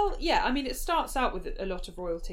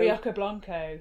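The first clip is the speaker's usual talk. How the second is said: slow, drawn-out drag queen announce; sassy drag queen; 4 dB louder, slower than usual. Pretend. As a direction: present it like a drag queen's name. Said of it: "it does sound like a drag queen".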